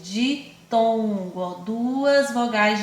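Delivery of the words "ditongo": "ditongo" slowly, "di" set apart from "tongo"; syllable by syllable. Shown as a demonstration. Teacher linking di to dois, "ditongo" syllable by syllable. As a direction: split "ditongo" after the first syllable. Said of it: "lembre da palavra dois".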